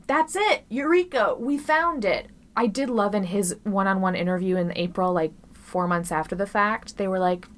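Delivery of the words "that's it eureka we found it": high, excited discovery shout; mock eureka. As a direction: burst out like a sudden discovery. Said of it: "I'm not willing to say".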